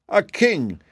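high-pitched, insistent rose chorus. A narrator's reading. Roses demand a king to rule them, high insistent chorus. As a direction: chant the demand high and slow. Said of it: "repeated the chorus of roses".

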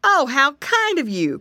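grateful cry. A narrator's reading. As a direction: exclaim thanks as a big creature. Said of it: "cried the big creature".

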